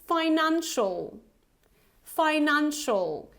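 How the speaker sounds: financial with a short final "shul"; correct pronunciation. Shown as a demonstration. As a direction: say financial clearly as a model, ending in a reduced "shul". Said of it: "How would you pronounce it?".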